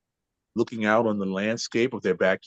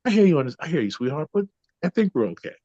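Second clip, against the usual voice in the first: sweet wife; 5 semitones higher, faster than usual. Retold or imitated. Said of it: "ever so lovingly".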